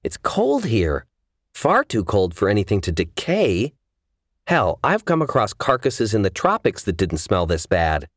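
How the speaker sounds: hint of a woman baffled by a stench; lightly voiced baffled heroine.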